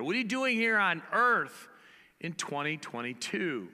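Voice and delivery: rising preach. Acted. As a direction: build to the key question. Preaching climax.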